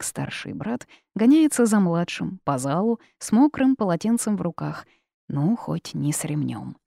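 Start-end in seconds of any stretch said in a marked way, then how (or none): none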